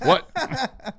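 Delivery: very high, laughing in disbelief; a squeaky laughing what. Retold or imitated. Host retelling his shock at last call, laughing high. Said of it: "and I was like".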